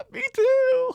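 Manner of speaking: high, loud, gleeful mom voice; high excited mock mom; mom's reply. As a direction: chirp it out delighted. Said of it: "Like, like that".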